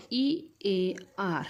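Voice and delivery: very slow, separate letters, each one stretched; spelled out letter by letter. Shown as a demonstration. Teacher spelling ear for young students, very slow and clear. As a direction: spell it slowly and carefully for the class. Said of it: "त्याचं spelling काय येतं?".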